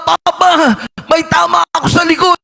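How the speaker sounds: retold cry for help. Son shot in the back crying out to his father, mock shout. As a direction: call out to papa, hurt and alarmed. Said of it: "sumigaw yung kanyang anak".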